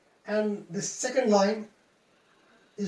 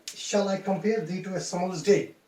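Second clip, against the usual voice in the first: "Shall I compare thee to a summer's day?" read evenly without a beat; non-native flat reading; 3 semitones lower than usual. Shown as a demonstration. Teacher imitating non-native reader, evenly stressed "Shall I compare thee to a summer's day?". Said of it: "how a non-native English speaker reads".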